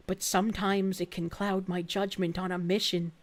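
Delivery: a hint of a bitter fighter; simmering hatred, building to resolve; vengeful biker voice.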